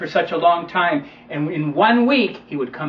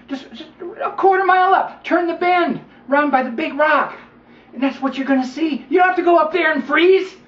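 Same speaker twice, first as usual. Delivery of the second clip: high, coaxing snake voice; sly snake; 9 semitones higher, 3 dB louder than usual. Acted. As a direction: lure him up the hill sweetly.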